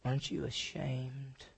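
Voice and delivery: sorrowful rebuke. Retold or imitated. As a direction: let the disappointment sink in. Jesus rebuking unfaithful.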